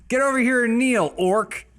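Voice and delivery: cold rasping evil emperor. Acted. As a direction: bark the order like a warlord. War chief commands kneeling.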